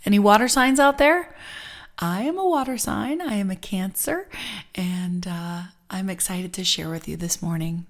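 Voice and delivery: ordinary talk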